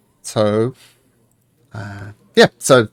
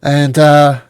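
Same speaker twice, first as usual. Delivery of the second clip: smooth, lightly voiced host; welcoming host; 3 semitones higher, 3 dB louder than usual. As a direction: Kadroth greeting the party at the keep. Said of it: "And the guy goes".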